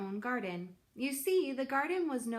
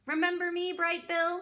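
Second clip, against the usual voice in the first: put-on very high, louder old goose greeting; old goose Loudwing, high and chirpy; 8 semitones higher, 6 dB louder than usual. A narrator's reading. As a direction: squawk a cheery hello like an old goose. Loudwing talks to gosling.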